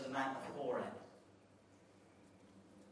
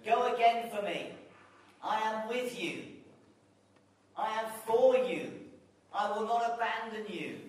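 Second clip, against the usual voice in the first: encouraging God voice; 3 semitones higher, 4 dB louder than usual. Pretend. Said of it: "he says".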